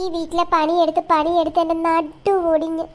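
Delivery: high, loud calling out; yelling from the kitchen. Acted. Mother yelling for Diya to come to the kitchen. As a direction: shout Diya over to the kitchen.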